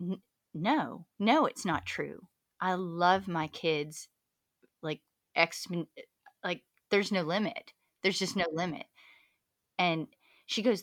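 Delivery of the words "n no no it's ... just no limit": plain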